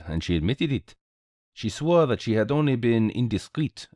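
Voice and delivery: lightly voiced French-accented sleuth; measured explanation with a hint of Gallic accent; Belgian detective, expounding. Detective lays out the blackmail to his friend, lightly accented.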